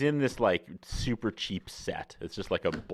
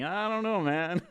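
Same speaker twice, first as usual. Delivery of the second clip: high-pitched doubtful reply; 10 semitones higher than usual. Retold or imitated. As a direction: pitch it way up, stretched out and unsure. Doubtful reply to Manitobans' claim.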